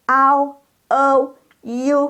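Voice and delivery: Au, O, U as ao, ou, iu, high and level; model diphthongs. Shown as a demonstration. Teacher models the third group, high sustained glides. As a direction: draw out each glide on a high pitch. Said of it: "Jadi bacanya".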